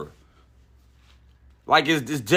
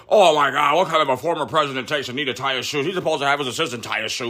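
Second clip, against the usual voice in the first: fast, whiny put-on voice of a scandalised liberal pundit; a lightly voiced mocking pundit; mock media voice; faster than usual. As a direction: parody their outrage, quick and fussy. Mocking Trump-obsessed media.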